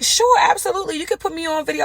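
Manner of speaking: high, bright-pitched eager yes; light imitation of a cheerful waitress; friendly waitress. Waitress agreeing to be filmed, high cheerful imitation. Restaurant lady voiced in a retold story.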